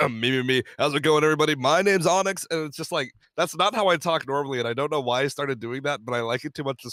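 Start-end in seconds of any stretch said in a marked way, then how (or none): 0.1-2.5 slightly higher, louder YouTuber intro voice; recording voice. Shown as a demonstration. Youtuber showing the voice he uses when recording, a hint of intro announcer. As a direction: put on the video-intro voice. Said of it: "I talk like this".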